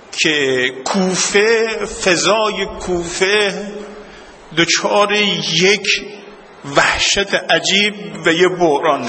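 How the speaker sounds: slow, rising lament voice; slow mournful narration. Acted. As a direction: draw the words out, building grief. (روایت آهسته و سوگوارانه)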